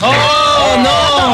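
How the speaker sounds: high, shocked oh no; shocked cry. Real, not acted. A shocked cohost reacts to the insult, high cry. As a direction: gasp it out, scandalized.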